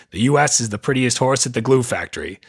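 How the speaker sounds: hammy put-on Canadian accent. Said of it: "that was a terrible Canadian accent".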